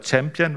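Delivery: "Champion" said the English way, like champ-yon; "Champion" not as in Champignon, English sound; "Champion" englisch ausgesprochen; English pronunciation. Shown as a demonstration. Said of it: "wenn man es so ausspricht".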